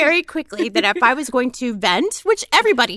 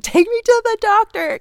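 mild mock wail; 10 semitones higher, 3 dB louder than usual. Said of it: "screaming and crying".

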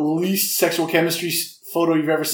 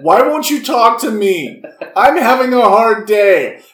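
imitating a public shout; 5 semitones higher, 4 dB louder, slower than usual. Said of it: "shouting at this dog in public".

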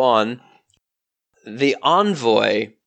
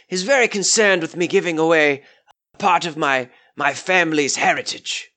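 lightly voiced polite old lord, a touch higher; the lord speaks courteously, slightly raised pitch; Lord White, genteel; 5 semitones higher than usual. Lord White explains his envoy to the adventurers, genteel and courteous.

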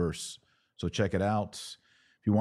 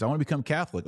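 acted convert; 8 semitones higher, much faster than usual.

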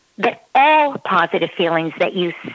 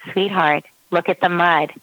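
loving tone. Shown as a demonstration. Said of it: "that was a loving tone of voice".

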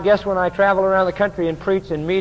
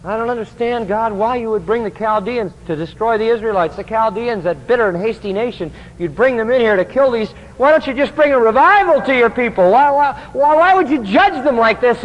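distraught Habakkuk; 3 semitones higher than usual. Retold or imitated. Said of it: "Habakkuk, you know, who says".

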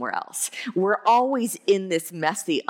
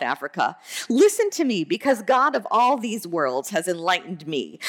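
lightly mock-pompous quotation, emphatic on key words; a touch of sarcastic grandeur; mildly sarcastic; 3 semitones higher than usual. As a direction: read it as a sarcastic boast from a self-important believer. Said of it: "he says, a bit sarcastically".

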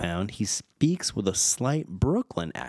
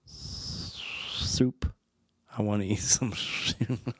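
lisping beaver voice; slower than usual. Retold or imitated. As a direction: imitate a whistling beaver lisp in a whisper. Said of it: "that's how he would sound".

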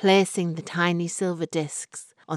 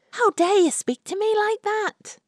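much higher, louder outraged retort; indignant young woman; 4 dB louder than usual. Acted. Florrie retorts to the insulting fortune teller, high and outraged. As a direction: fling it back in outrage.

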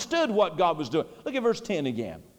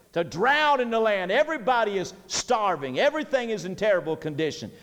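ordinary delivery

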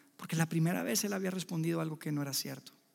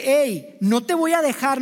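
mock wrestler's grip; 5 semitones higher, 9 dB louder, slower than usual. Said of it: "ese aferrarse".

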